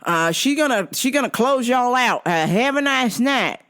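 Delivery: slightly high, drawling waiter voice; put-on waiter farewell; Kelvin. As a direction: imitate a server signing off. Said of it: "Kelvin's like".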